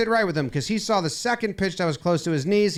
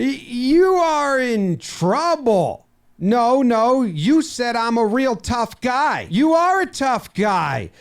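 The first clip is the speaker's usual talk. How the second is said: heated argument; 2 semitones higher, slower than usual. Acted. Voicing manager arguing with umpire.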